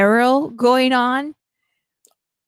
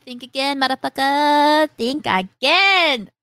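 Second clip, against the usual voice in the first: cocky taunt; 4 semitones higher than usual. Retold or imitated. Voicing hero taunting enemies.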